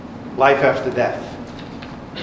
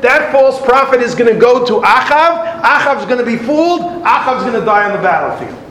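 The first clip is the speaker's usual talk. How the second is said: heavenly voice; 6 semitones higher than usual. Acted. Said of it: "a voice comes out and says".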